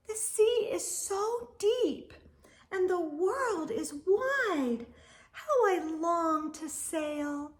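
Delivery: a small wistful voice reaching for the sea; a hint of a little snail sighing; tiny snail's longing. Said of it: "said the tiny snail".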